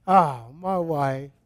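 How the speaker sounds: lightly acted contentment; relieved husband. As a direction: sigh it like a dad finally left with his wife. Acts husband finally alone with wife.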